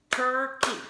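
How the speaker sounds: "Turkey" loud, split into tur-key; "Turkey" chanted in claps; clapped syllables. Shown as a demonstration. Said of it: "Two claps".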